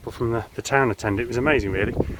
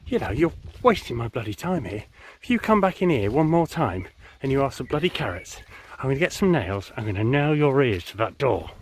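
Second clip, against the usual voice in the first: mock threat; 2 semitones higher than usual. Butcher threatens the rabbit.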